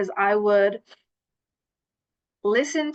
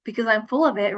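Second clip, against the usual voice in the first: reciting a mantra. Retold or imitated. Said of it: "I would have this mantra".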